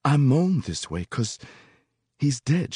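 put-on high, mournful old woman's voice. A narrator's reading. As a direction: moan the words out. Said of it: "Why do you moan?".

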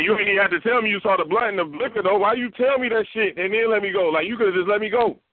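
high, incredulous questioning; mock disbelief. Telling the cop he's baffled at being let go, high incredulous. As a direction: sound baffled he got let go. Retelling his reply to the cop.

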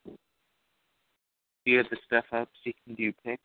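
slow, distant off-mic voice; talking too far from the phone; phone held away. Real, not acted. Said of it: "You gotta talk into the phone better than this".

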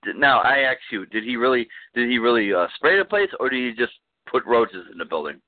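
high, indignant ranting voice; conspiracy rant voice. Acted. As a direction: rant it like a paranoid tenant. Ranting about exterminator.

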